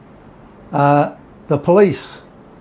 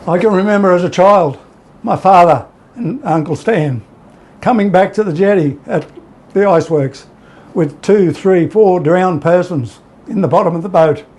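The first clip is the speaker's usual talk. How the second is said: after crying; 3 semitones higher than usual. Real, not acted. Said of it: "I get teary".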